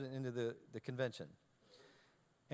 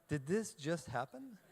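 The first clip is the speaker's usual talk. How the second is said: laughing disbelief; 3 semitones higher, slower than usual. Real, not acted. Stunned after the president leaves.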